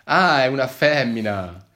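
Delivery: pleased to learn the dog is female, beaming; smiling exclamation. Acted. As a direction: exclaim it with a smile. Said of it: "esclamai sorridendo affabile".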